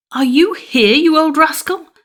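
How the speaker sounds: huntsman exclaims. Acted. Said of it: "exclaimed he".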